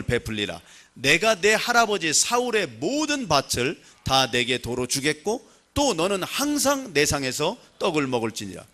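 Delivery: measured, solemn Bible reading; scripture reading. Acted. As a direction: read the verse aloud for the congregation. Congregation reads scripture aloud.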